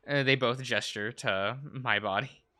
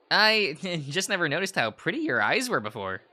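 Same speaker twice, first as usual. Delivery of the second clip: laughing; 3 semitones higher than usual. Acted. Laughing while speaking.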